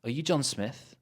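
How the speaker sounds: "Are" reduced to a short "uh"; weak are. Shown as a demonstration. Teacher repeating the model, weak "Are". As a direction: slip lightly over "Are you" into "John Smith".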